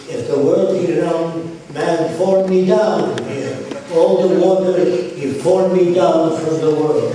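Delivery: put-on slow, loud Arab-accented broken English. Arab leader arguing against a round world, Arab accent. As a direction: labour the argument in an imitated Arab accent. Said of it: "said in an Arab accent".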